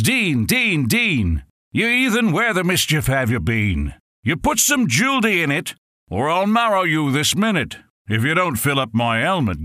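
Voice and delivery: thirsty troops hollering at Gunga Din; impatient soldiers yelling. Acted.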